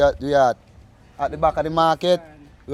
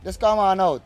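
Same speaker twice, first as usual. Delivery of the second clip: lively market-stall pitch, a bit louder; upbeat sales pitch; 5 semitones higher, 4 dB louder than usual. Real, not acted. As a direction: call the customers over with energy. Vendor calling buyers to his stall.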